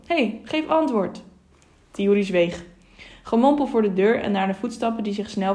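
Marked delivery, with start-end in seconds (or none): 0.1-1.2 higher, slow demanding call; drawn-out, higher-pitched summons. A narrator's reading. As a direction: call for an answer through a door. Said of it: "werd er geroepen".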